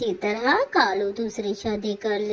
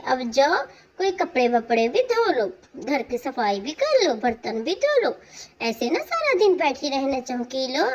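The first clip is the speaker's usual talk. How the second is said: bossy second wife; 2 semitones higher, faster than usual. Acted. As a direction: hurry her through the chores. New wife orders chores.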